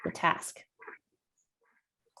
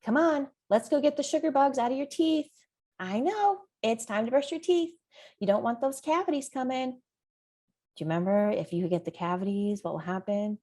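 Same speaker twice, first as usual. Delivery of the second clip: higher, sing-song coaxing; a parent coaxing a child to brush teeth, higher and sing-song; 4 semitones higher, 3 dB quieter than usual. Shown as a demonstration. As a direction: sweeten it to lure a kid to brush. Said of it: "I'm gonna say things like".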